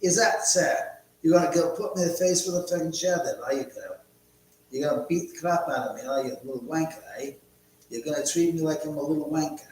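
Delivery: playful put-on South African accent, taunting. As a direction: rib the chatter in a mock South African accent. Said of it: "South African people say".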